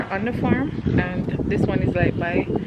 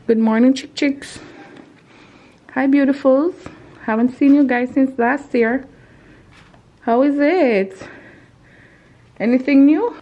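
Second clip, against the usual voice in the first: greeting animals; 4 semitones higher, 5 dB louder than usual. Real, not acted. Greeting the chickens.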